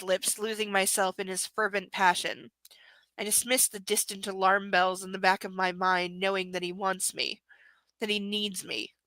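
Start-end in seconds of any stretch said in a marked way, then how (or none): 3.2-6.2 whispering. Acted. Whispered erotic reading.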